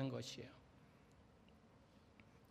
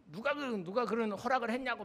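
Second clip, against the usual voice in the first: indignant parent, retold with raised pitch; retold parental protest; 5 semitones higher than usual. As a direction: imitate a parent challenging the teacher. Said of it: "막 삿대질하면서". (따지는 학부모 흉내)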